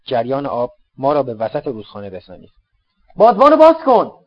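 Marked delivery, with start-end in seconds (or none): 3.2-4.1 high, loud command over the wind; shouted order. Acted. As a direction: bark the order to raise the sail. (دستور فریادوار و زیر)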